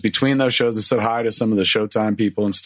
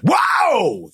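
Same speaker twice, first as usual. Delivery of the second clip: sudden high, loud cry of shock; startled yelp as the medic yanks his jersey up; 3 dB louder than usual. Retold or imitated. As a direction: yelp as if caught off guard.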